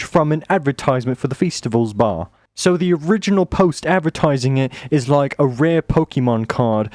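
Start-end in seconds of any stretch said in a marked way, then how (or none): 4.9-6.9 slipping into a British accent; accidental British accent. Real, not acted. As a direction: say it with British vowels. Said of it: "speaking a British accent".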